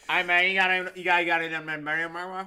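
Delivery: put-on lapse back into the holler accent; Southern accent. Showing friends he slipped into Southern accent. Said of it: "I'm speaking the thing".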